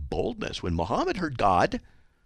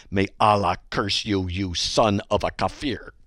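menacing hate mail; slower than usual. Acted. Reads a threatening hate mail.

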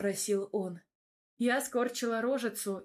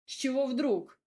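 higher, louder indignant retort; 5 semitones higher, 4 dB louder than usual. A narrator's reading. Radim protests her misreading, indignantly. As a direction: sound outraged. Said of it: "возмутился мой гопник".

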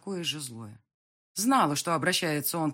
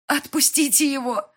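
shouting; 10 semitones higher, 9 dB louder than usual. A narrator's reading. Mother rushing to son.

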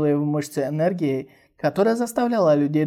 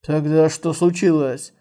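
fearful; 4 dB louder than usual. Acted. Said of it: "со страхом спросил Каба".

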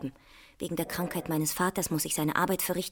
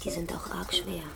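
hushed and soft; sympathetic whisper; 6 dB quieter than usual. Acted. Signalwoman whispering sympathy about the hard pieces.

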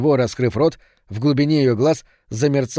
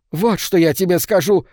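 higher, louder threatening cry; old woman shouting a threat; old woman's shout; 6 semitones higher, 3 dB louder than usual. A narrator's reading. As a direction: shout it as she lunges. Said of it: "крикнула старуха".

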